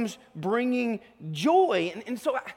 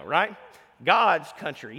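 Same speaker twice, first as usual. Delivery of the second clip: ordinary talk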